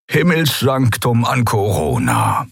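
slow, lightly purred feline voice; old Skria purrs over the comm; purring. A narrator's reading. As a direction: purr the call sign. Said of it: "schnurrte er".

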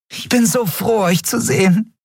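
high small creature voice; a tiny fairy glad to see them; tiny Yadi. A narrator's reading. Little Yadi Nelen hugging Miko, happy to see him.

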